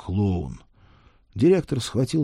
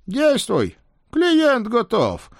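spirit voice; 5 dB louder, much slower than usual. Acted. Spirit urges boy.

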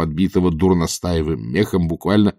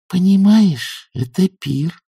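drawn-out, high-pitched know-it-all explanation; authoritative; 10 semitones higher, much slower than usual. A narrator's reading. Nanny explains the play to matushka, authoritative. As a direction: explain slowly, as the one who knows. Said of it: "авторитетно сказала нянюшка Ягг".

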